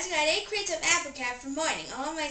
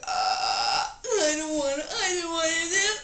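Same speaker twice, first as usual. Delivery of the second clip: crying; 3 semitones higher, 3 dB louder, much slower than usual. Acted. Sobbing after burping.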